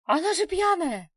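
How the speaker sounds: high, loud protesting shout. A narrator's reading. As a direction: shout back in disbelief. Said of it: "кричала Людка". (высокий громкий возмущённый крик)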